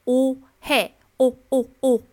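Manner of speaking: "误会" said as rounded tense o-hae, not Chinese wuhui; "哦，哦，哦" with round tense lips, loud; correct Korean 오해. Shown as a demonstration. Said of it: "而是". (把"误会"念成圆唇紧张的 오해)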